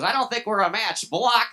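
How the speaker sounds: high, loud mimicked brush-off; mock rejection. Date rejecting him over the nugget question, high mock yell. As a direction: imitate a date loudly shutting you down. Retelling a date's abrupt rejection.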